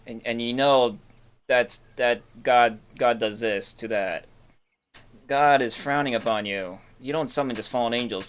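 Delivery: slow preachy. Acted. Preachy accusation.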